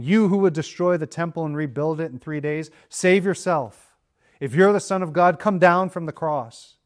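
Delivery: preacher's imitation of a taunt, building; retold derision. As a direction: start even, build into a challenging mock taunt. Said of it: "derided him".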